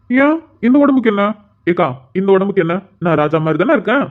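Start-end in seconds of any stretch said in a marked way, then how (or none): 0.1-1.2 raised, indignant question about his body; mock offended. Grandson teasing his worried grandmother, mock offended. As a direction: playfully bristle at the grandmother's remark.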